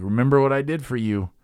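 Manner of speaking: mock scolding Jesus; guilt-tripping reminder. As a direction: lay on the guilt. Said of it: "it's not Jesus saying".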